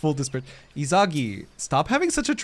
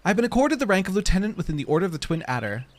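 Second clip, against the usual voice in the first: reading quest text. Acted. Reading NPC quest text aloud.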